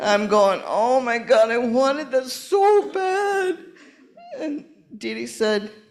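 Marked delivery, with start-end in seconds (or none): 0.6-3.6 high, slow, tearful sobbing voice. Retelling losing the auction, imitating her own crying. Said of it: "and I began to cry".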